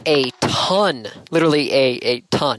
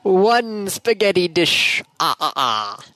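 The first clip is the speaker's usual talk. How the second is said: slow, mock Transylvanian counting voice; Count from Sesame Street; 3 semitones higher, slower than usual. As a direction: count the dishes like the Count, slow and hammy. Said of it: "the Count from Sesame Street".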